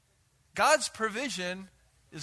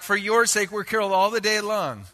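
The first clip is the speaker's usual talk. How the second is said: sarcastic; 3 semitones higher, 5 dB louder than usual. Shown as a demonstration. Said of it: "a little sarcasm there".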